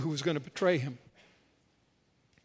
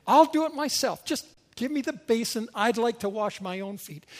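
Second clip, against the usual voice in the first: stubborn insistence; 5 semitones higher than usual. Acted. Peter's acted counter-offer to Jesus.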